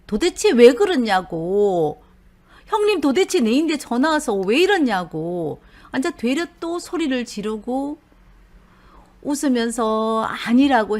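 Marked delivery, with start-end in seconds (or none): 0.1-5.6 indignant complaint. Retold or imitated. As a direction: press on 왜 like a wronged husband. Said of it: "억울할 거 아니에요".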